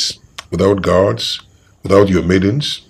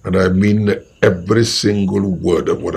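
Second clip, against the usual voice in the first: stern threat; slower than usual. Acted. King warns the guards.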